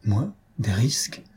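cold, bitter scoff in an altered voice; bitter irony. A narrator's reading. Young wife mocking her husband's worry with bitter irony. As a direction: sneer at the word risks. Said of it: "avec une sanglante ironie".

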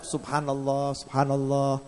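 soft, unhurried subhanallah; quiet, measured recitation; soft dhikr prompt. Retold or imitated. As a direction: gently model the phrase for the patient.

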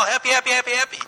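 put-on high-pitched, excited baby talk; cute voice to a dog. Shown as a demonstration. Talking to a happy dog in a high, excited cute voice. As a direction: coo it to the dog like it's the best news ever. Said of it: "in this really cute little voice, high-pitched and all excited".

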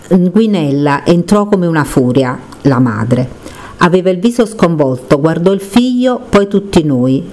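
measured read-aloud narration; book reading aloud. Acted. Reading a page in memory of Gennarino, narrated. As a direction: read the tragic page to its author.

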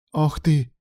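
high-pitched gasped exclamation; gasping. A narrator's reading. Alan is startled by his lover, gasping high. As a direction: exclaim as the breath catches. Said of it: "задохнулся Алан".

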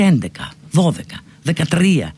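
«έντεκα, δώδεκα, δεκατρία» με κάθε σύμφωνο καθαρό; τόνισε το «τρ» στο «δεκατρία»; καθαρή άρθρωση. Shown as a demonstration. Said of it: "Να ακούγεται και το τρου". (ορθοφωνικό «δεκατρία» με έντονο ρο)

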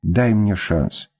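a hint of wheedling plea; pleading tone. Бывший муж, сменив тон, медленно упрашивает жену. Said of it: "вдруг сменил тон Серый".

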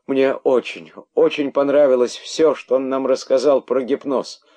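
high, loud repentant plea; pleading confession. A narrator's reading. Herald repenting before the angry rabbits, pleading. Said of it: "закричал находчивый".

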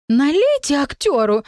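high, squeaky fairy voice. Acted. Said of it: "пропищала фея".

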